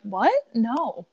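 baffled question, then firm refusal; incredulous. Acted. Reacting to the Pennsylvanian pronunciation, incredulous. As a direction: reject it in disbelief. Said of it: "And I'm like".

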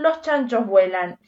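los chanchos vuelan, slow and deliberate, each word weighed; slow emphatic repeat. Shown as a demonstration. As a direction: hammer home los chanchos vuelan slowly. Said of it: "Si te están diciendo que los chanchos vuelan". (repetir despacio y marcado: los chanchos vuelan)

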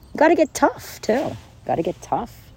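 high, emphatic push to get tough; rally them to get tough; urging. Real, not acted. Urging listeners to toughen up, high and insistent.

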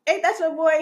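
high, incredulous what; retold shock. To the ex's homie hitting on her, mock shocked. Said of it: "And I'm just like".

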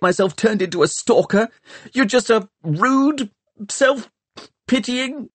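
high, angry tirade that rushes then slows; boy ranting at the girl about his own loss; raging rant. A narrator's reading. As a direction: pour out his own grief as an attack. Tom raging during quarrel.

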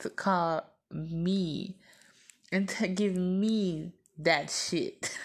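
drawn out, slow and indignant; slow indignant emphasis. Real, not acted. Slow indignant scolding of the sister wife who told on her. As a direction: lay each word down slowly, appalled.

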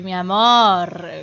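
very slow, drawn-out Argentine mi amor; slow flirty Argentine lilt; Argentine compliment. Shown as a demonstration. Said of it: "yo puedo decir".

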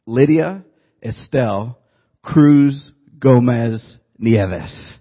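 slow, loud, Spanish pronunciation of Lydia Estelle Cruz Gomez Nieves; proudly reciting every name; Spanish name recital. Retold or imitated. Reciting grandma's full Spanish name.

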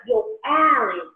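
animated New Yorker. Retold or imitated. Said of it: "she used to be so animated".

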